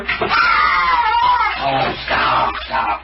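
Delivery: high yelp, then a breathy shouted stop; startled cry as the cat claws free; sudden shout. Real, not acted. Owner yelling at the thrashing cat, a sudden shout.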